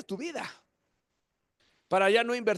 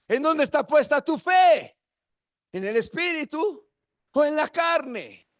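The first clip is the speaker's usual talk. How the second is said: higher, louder, pressing question; loud repeat; 4 semitones higher, 4 dB louder than usual. Shown as a demonstration. Preacher pressing the congregation with a louder, higher question.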